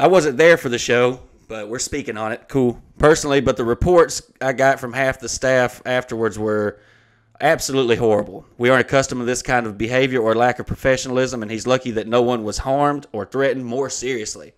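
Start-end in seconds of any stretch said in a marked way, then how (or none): 0.0-1.2 louder, declaimed formal complaint; email read-aloud. Acted. Venue writer disclaiming attendance, loudly read aloud. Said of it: "I'm gonna read the email". 3.0-14.5 declaimed formal complaint, even and unbroken; email read-aloud. Acted. Venue complaining to the comedian's agent, formally read aloud. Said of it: "I'm gonna read the email".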